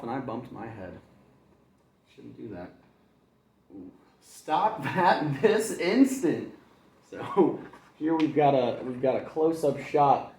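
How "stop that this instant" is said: slow, high scold breaking into laughter; mother scolding, cracking up; mom scolding. Acted. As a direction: try to stay stern. Mom scolding bed jumping.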